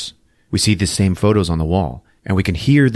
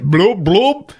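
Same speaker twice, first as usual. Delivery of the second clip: imitated blood gurgle; 12 semitones higher, 4 dB louder than usual. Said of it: "blood coming out of his mouth".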